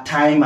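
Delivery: "ଟାଇମ୍" with a breath puff after the T; aspirated T. Shown as a demonstration. Teacher showing how foreigners say it, "ଟାଇମ୍" with aspirated T. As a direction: say "ଟାଇମ୍" starting with ଠ instead of ଟ. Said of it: "ଏଇ ଟ କୁ ଠ ଆକାରରେ ଉଚ୍ଚାରଣ କରନ୍ତି".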